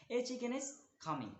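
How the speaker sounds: each word drawn out for learners; slow, deliberate classroom reading; slow example reading. Shown as a demonstration. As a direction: read it slowly like dictation. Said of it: "teacher reads example slowly".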